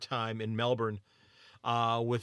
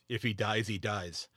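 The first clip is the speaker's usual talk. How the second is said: Drago quote; 3 semitones lower than usual. Retold or imitated. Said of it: "as he said about".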